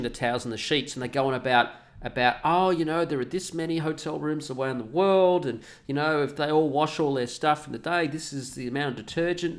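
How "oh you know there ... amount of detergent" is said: lightly voiced preachy hotel; a touch of sanctimonious hotel pitch; mock hotel notice. Mocking the hotel's towel card, mildly preachy.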